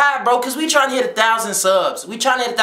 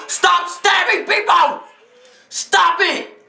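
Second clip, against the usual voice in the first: high, stretched-out shout at the screen; exclaimed plea; 7 semitones higher, much slower than usual. Real, not acted. Pleading with wrestlers on screen.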